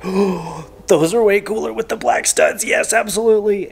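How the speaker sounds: high and loud, thrilled; excited. Retold or imitated. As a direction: gush over the shoes. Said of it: "We were like, gasps".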